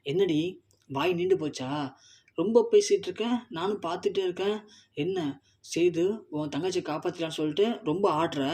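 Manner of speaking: sneering, mocking jabs with sharp rising peaks; taunting scolding. Thamarai taunts Tamilselvi, sneering and angry. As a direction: lash out at a rival with scorn. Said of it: "பலனும் அற விடுறாங்க".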